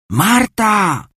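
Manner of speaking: high call through the letter slot. Acted. Bella calls Marta through the door slot, high. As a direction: call her name up into the house. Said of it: "zawołała".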